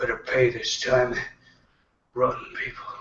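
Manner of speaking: soft grumbling mutter under the breath. Voicing a barkeep wiping a mug: muttering under his breath. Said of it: "he mutters under his breath".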